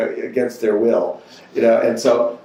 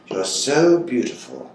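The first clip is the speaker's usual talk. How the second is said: stern scolding; 4 semitones higher than usual. Retold or imitated. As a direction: scold him firmly, pitch jumping on ever. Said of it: "she just lit into me".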